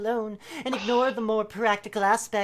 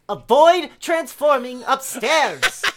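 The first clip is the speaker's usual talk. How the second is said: slow and louder, a pointed call; yelling across the room; 3 semitones higher, 6 dB louder, slower than usual. Acted. Pointed reading aimed at friend.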